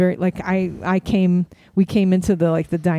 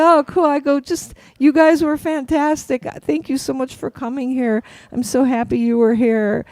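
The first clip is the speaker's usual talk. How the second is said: high-pitched polite gushing; retold awkward fan enthusiasm; gushing small talk; 6 semitones higher than usual. Fan thanking a singer for coming, high gushing chatter.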